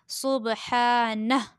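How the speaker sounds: सुबहानह with long "haa", stopped on "nah"; waqf stop ending. Shown as a demonstration. Teacher giving another example, सुबहानह in pause form. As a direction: close सुबहानह on a breathed h, no final vowel. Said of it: "वक्फ़ की सूरत में इसको".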